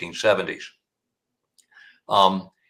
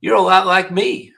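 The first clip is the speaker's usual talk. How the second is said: much higher, sly put-on voice; high-pitched Pee Wee; 9 semitones higher, 5 dB louder than usual. Killer taunting the prosecutor, high-pitched. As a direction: needle him in a high voice. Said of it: "He said".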